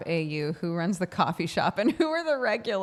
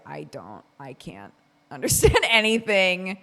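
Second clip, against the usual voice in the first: laughing complaint; 7 dB louder than usual. Retold or imitated. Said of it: "Sam was like".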